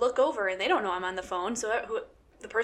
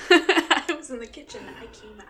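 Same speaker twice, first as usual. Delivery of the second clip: mock Dane Cook; 3 semitones higher, 3 dB louder than usual. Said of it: "It's Dane Cook".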